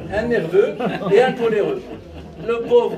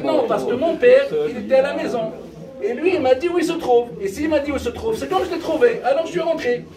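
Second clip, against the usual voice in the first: higher, eager wife pleading her case; excited wife; 5 semitones higher than usual. Acted. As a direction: blurt it out, proud and breathless. Wife explains to husband excitedly.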